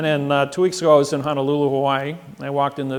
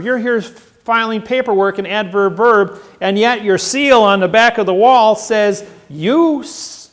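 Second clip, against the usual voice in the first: louder and higher, pressing each point; hammering the judge with a raised voice; confronting the judge in court, raised and insistent; forceful retold lecture; 6 semitones higher, 6 dB louder than usual.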